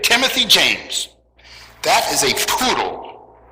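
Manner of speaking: a hint of a stern mother scolding. Mother scolding her five-year-old over the lion, mock-stern. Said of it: "in a scolding voice".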